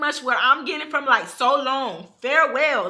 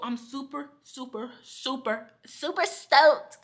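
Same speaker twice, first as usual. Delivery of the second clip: drawn-out flat super, super, super stoked; sarcastic deadpan super stoked; mock bored enthusiasm; slower than usual. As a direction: fake hype with no energy, dragging it out. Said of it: "I'm just kidding".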